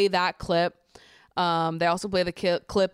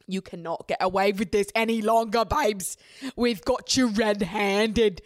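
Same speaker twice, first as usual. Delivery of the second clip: mock gotcha; 3 semitones higher than usual. Host taunting Tanya over the exposed kiss, mock gotcha. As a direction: relish catching her out.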